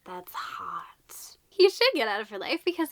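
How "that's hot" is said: low, soft aside; imitated smitten stranger. Handsome stranger to runaway girl, low and soft. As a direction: lightly act a man quietly impressed. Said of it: "he's like".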